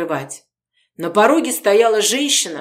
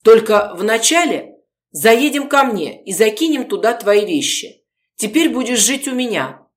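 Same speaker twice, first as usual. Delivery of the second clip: louder, higher, carried away with plans; eager persuasion; 4 semitones higher, 4 dB louder than usual. Acted. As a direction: sweep her along with big promises. Gorodetsky excitedly persuading Polina.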